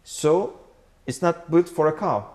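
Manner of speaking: usual speaking voice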